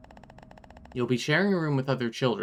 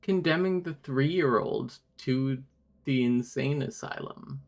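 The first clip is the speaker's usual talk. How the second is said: incredulous; slower than usual. Real, not acted. Incredulous at the story detail.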